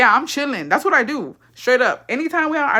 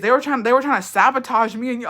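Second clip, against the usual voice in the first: laughing; 4 semitones higher than usual. Retold or imitated. Laughing mock quote.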